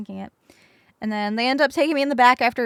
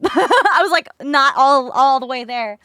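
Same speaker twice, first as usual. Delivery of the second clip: laughing; 2 semitones higher, 9 dB louder, slower than usual. Real, not acted. Laughing about being out.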